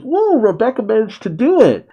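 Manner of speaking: high-pitched imitation of own excitement; thrilled. Host replays his reaction to Rebecca's win, thrilled. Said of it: "I actually kinda got thrilled".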